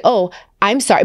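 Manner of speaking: a lightly imitated grudging "sorry"; mock sorry. Clerk forced to apologize, lightly imitated with a touch of attitude. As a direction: apologize with only a hint of attitude. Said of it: "But still with an attitude".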